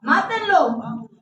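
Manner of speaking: drawn-out chant of a mob, acted without full volume; slow, half-voiced mob cries; mock crowd shout. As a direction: stretch each demand like a crowd calling out. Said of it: "la gente gritaba a pulmón".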